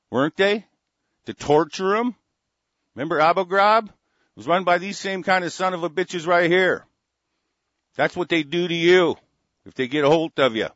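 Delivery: high, loud furious shouting; rising into an outraged shout; angry yelling. Real, not acted. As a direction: yell it up, full of rage. Furious rant building to yelling.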